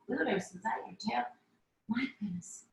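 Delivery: hushed whisper to the cat. Real, not acted. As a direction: breathe it under your breath. Aside to the cat.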